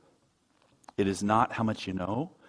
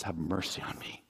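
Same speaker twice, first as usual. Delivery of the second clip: soft, lower, subdued begging; humble plea; 4 semitones lower, 8 dB quieter than usual. Retold or imitated. Publican in the parable asking for mercy, humble and hushed. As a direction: imitate a humbled sinner, dropping the voice. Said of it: "comes up and just says".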